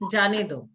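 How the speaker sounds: जाने दो as its own phrase after a pause; जाने दो detached from the words before it; set apart after comma. Shown as a demonstration. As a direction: break first, then a falling जाने दो. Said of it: "फिर comma".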